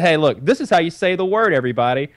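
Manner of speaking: imitating a dad instructing everybody; pointedly enunciating dad. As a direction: make a point of how the word is said. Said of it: "fully enunciate it and make it clear".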